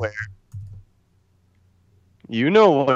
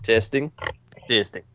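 muffled underwater-sounding mic; tinny headset microphone sound; bluetooth headset mic; 3 dB quieter than usual. Real, not acted. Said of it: "You sound like you're underwater".

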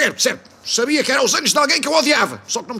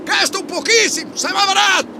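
escalating comedy rant. Acted. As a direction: bellow absurd offers upward. Absurd pleading shouts. (discurso cómico em crescendo)

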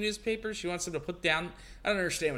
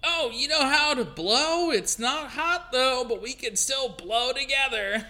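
cooing nanny voice; 7 semitones higher, 5 dB louder, slower than usual. Acted. Mary cooing to the baby.

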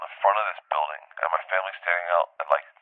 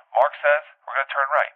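higher mock voice of the carefree pilot; imitating the director; 8 semitones higher than usual. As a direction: read the directions like a know-it-all. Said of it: "he's reading off directions".

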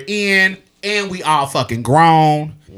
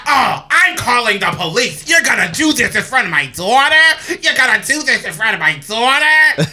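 mock indignant accent, pitched higher; Evelyn Lozada accent; 5 semitones higher, 3 dB louder than usual. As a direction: put on an accent for an outraged mother. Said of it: "I just gave her Evelyn Lozada accent".

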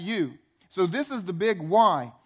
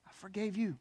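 tender voice of God; 4 semitones higher than usual. Retold or imitated. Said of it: "God looks down and goes".

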